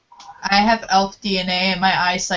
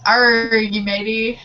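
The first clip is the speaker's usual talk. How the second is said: pirate voice; slower than usual. Pretend. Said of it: "I can't interpret a pirate".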